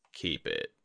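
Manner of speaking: low, slow, grave teacher's voice; a dying sensei, calm and heavy; Yori the old master. A narrator's reading. Yori to Tadaka.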